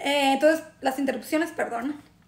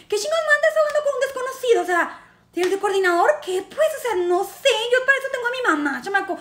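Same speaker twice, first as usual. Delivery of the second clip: fast, higher-pitched indignant rant; mock indignation; 6 semitones higher than usual. Scoffing at crying with a stranger, indignant. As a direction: protest in comic outrage.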